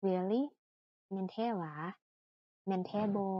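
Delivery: mildly surprised "oh, really?"; wowed exclamation. Shown as a demonstration. Teacher showing students how to exclaim in wonder, mildly surprised. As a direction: demonstrate an exclamation of wonder, lightly. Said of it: "อุทานขึ้นมาด้วยความแบบ ว้าว".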